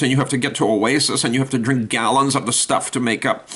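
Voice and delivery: a bad-tempered camel griping to God. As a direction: pile up the complaints one after another. Camel griping about desert life.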